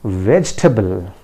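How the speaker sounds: "vegetable" said VEJ-tuh-bul, three syllables; correct vegetable. Shown as a demonstration. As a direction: drop the middle e in "vegetable". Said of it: "it is pronounced as".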